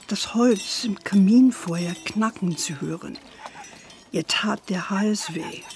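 measured storyteller's voice, unhurried; story narration. A narrator's reading. Grandmother telling granddaughter a story, gentle narration. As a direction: tell it like a bedtime tale.

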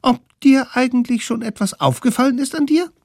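put-on very high, loud and fast children's question; high quick kid voice; high kids' voice. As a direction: rattle it off like cheeky little kids. Kids question mammoth.

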